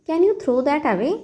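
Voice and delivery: very slow, teacherly model phrase; slow model sentence. Shown as a demonstration. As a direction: spell it out slowly for learners. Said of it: "तो इस बात को आप कहिए". (बहुत धीमे, सिखाने वाले अंदाज़ में)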